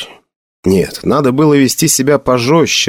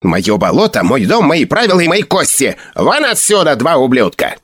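put-on gruff old hermit yelling; 4 semitones higher than usual. Hermit throws them out.

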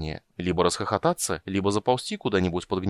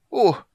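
high, loud yelp of pain; sharp pained gasp; pained groan; 12 semitones higher, 5 dB louder than usual. A narrator's reading. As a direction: groan as if suddenly grabbed. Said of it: "Болезненный стон".

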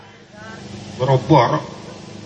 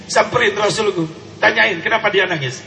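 usual speaking voice

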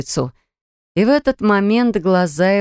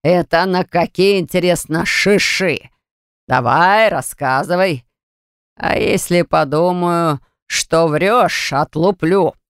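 slow, threatening father's voice; furious father interrogating his daughter; angry father; slower than usual. Acted. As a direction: lean on the threat, each word heavy.

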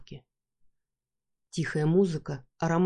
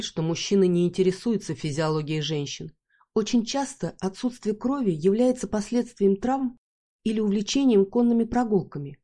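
usual speaking voice

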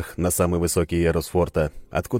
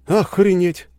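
loud, high blurt of surprise; amazed exclamation; 14 semitones higher, 6 dB louder, slower than usual. Acted. Narrator blurts out his astonishment, loud. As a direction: it bursts out of you. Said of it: "невольно вырвалось у меня".

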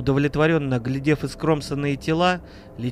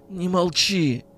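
plaintive; 4 semitones higher, slower than usual. Acted. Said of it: "жалобно попросил Миронов".

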